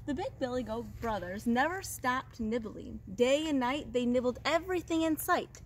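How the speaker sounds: storyteller lingering on key words; story narration. A narrator's reading. Teacher reads goat tale to second graders, animated storytelling. Reads a picture book to children.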